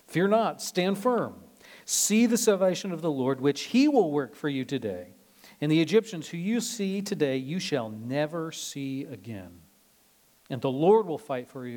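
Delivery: rally a frightened crowd; bold encouragement. Retold or imitated. Moses calling to frightened Israel, loud and firm.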